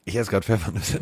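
talking with a mouthful of cookies; chewing while talking. Real, not acted. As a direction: chew while you answer. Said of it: "Isst du grad Käse".

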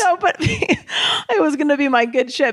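raspy voice after screaming; hoarse voice. Real, not acted. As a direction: speak with a worn, hoarse voice. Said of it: "I lost my voice screaming".

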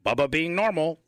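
a polite dinner-table nerd, only hinted; mock normal guy. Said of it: "like Johnny Nerd Boy Rump".

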